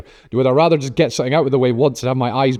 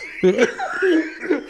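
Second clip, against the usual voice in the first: pterodactyl shriek; 4 dB quieter than usual. Real, not acted. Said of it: "What the hell was that?".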